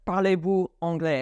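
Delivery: Parlez-vous anglais asked curtly, with no greeting; abrupt French question. Shown as a demonstration. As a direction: blurt out the question. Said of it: "and not just".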